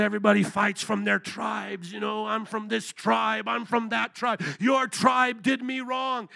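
lightly imitated Kenyan accent; African accent. Kenyan brother explaining tribalism to the preacher, lightly imitated African accent. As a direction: retell it with a hint of African accent, slowing down. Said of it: "trying to do my African accent".

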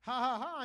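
imitated laugh in separate ha-ha syllables; mock laugh. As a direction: act out Sarah laughing, lightly. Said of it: "she's laughing like".

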